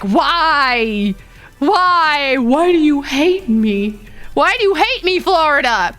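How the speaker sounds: drawn-out, hammed-up lament; mock pleading. Streamer begging Florida over its weather, mock pleading. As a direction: plead in playful despair. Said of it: "I'm like".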